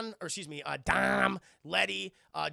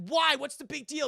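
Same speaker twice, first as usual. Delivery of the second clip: much higher, much louder startled question; alarmed why; 8 semitones higher, 7 dB louder than usual. Retold or imitated. Mia confronting Brian about the urgency, high and alarmed. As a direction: snap back in disbelief.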